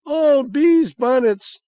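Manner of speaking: slow, high, loud exasperation; indignant. Acted. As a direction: toss it at the ceiling in disgust. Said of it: "with an indignant rat-a-tat-tat".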